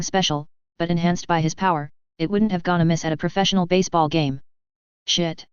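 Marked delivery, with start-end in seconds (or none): 5.1-5.5 yelp. Acted. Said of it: "I yelped".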